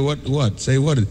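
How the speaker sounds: high, soft, needling mock voice; mock nagging demand to say something; pushy questioner. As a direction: keep pestering like an eager stranger. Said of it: "and then they go".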